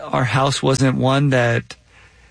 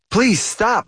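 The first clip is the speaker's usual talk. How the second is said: high plea without real volume; restrained, high-pitched begging; understated shout; 9 semitones higher than usual. A narrator's reading. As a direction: read a shout with pitch, not force. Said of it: "I shouted".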